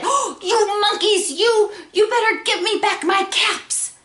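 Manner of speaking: exasperated gasp into loud, high scolding; hammed-up storybook outrage; quite angry. Peddler stamps his foot at the monkeys, quite angry. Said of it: "now he felt quite angry".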